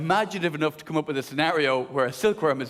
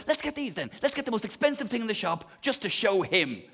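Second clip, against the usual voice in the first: petulant defiance; 4 semitones higher than usual. Retold or imitated. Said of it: "reverse psychology where I went".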